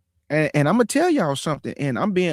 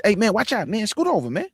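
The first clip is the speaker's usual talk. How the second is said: put-on bossy kid shout; 7 semitones higher than usual. Boys clearing porch for elder.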